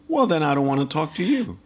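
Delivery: imitated curt refusal; blunt brush-off. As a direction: brush him off, as in a retold exchange. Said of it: "Just like that".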